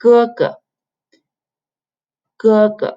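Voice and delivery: "gē-ge", second syllable unstressed; first tone, light tone. Shown as a demonstration. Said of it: "go along with the first word".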